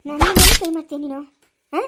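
loud outraged yell; shouting in disbelief; furious shout. Acted. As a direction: scream it at him in outrage. Grandmother confronts grandson's raised hand.

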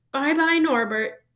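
slow, high, tearful goodbye; sobbing farewell. A narrator's reading. Hagrid sobbing goodbye to his baby dragon, high and tearful. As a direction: sob it out, stretching the words. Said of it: "Hagrid sobbed".

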